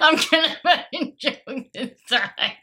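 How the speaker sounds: giggling through the words; can't stop laughing. Real, not acted. Laughing fit.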